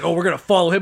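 put-on loud, reckless drunk driver; a drunk dad's loud road rage; loud mock dad. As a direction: announce the chase loudly and wildly. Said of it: "He's like".

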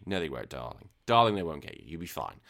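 low, soft soothing aside; gently calm a scared little one, dropping low; lightly acted comforting murmur; retold reassurance. Soothing scared Hiccups in retold exchange.

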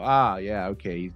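usual speaking voice

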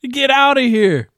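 high, slow get outta here; disbelieving. Real, not acted. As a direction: laugh it off in disbelief. Reacting to milk, laughing disbelief.

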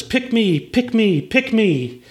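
high-pitched eager pleading, imitating a child; acted kid's high excited chant. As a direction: beg to be chosen like an excited boy. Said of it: "he gets very excited".

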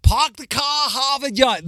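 put-on high, loud Boston accent, R's dropped. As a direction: mimic a broad Boston accent, slowing at the end. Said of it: "there are no R's in a".

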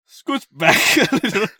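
weird dom voice. Acted. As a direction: overdo the bossy lover, laughing. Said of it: "I give it a weirder voices every time".

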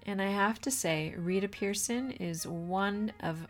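upbeat announcer read; bright show-opening voice; podcast intro. Acted. Podcast intro read over music.

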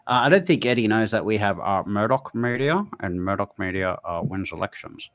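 lightly voiced politician impersonation; a hint of a mimicked politician; Kevin Rudd. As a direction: lightly mimic an ex-prime minister making his point. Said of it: "That was my Kevin Rudd impersonation".

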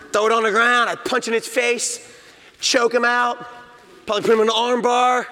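a dad hamming up his bear-fight plan; mock tough boasting. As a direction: puff up like a fake tough guy.

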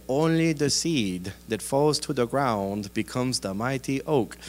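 accented old master impression; Mister Miyagi. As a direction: deliver a proverb like a martial-arts sensei. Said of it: "pretend like I'm Mister Miyagi".

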